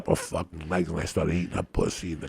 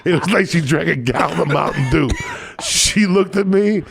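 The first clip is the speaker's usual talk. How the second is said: very high, loud comic exclaiming; worked-up storytelling; 11 semitones higher, 8 dB louder than usual. Real, not acted. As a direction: shout the punchlines over the laughter. Shouting his punchlines amid laughter.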